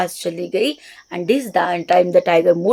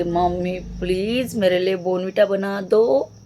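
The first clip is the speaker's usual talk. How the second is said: soft gentle request. Shown as a demonstration. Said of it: "इस soft gentle voice में".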